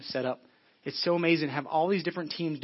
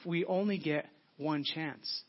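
slow, stretched, "only" stressed; slow it right down to land it; slow emphatic; slower than usual. Real, not acted. Repeated slowly for emphasis.

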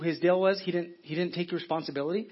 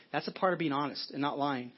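usual speaking voice

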